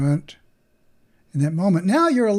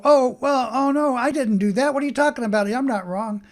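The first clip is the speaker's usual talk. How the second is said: mock defensive protest, higher and louder; a hint of indignant self-defence; 7 semitones higher, 4 dB louder than usual. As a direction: play the defensive one who denies it all. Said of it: "So rather than go".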